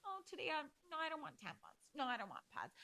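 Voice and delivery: high, sing-song mock voice for the first lines; playing a woman who skips her tampons; mock whiny refusal. A woman mocking the idea of skipping tampons, high and sing-song. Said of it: "It's not like".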